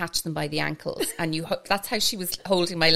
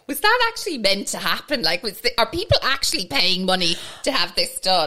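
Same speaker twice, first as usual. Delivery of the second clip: raised, louder retold disbelief; incredulous; 3 semitones higher, 6 dB louder than usual. Client wondering afterwards, mock incredulity. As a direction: ask it as if scandalised.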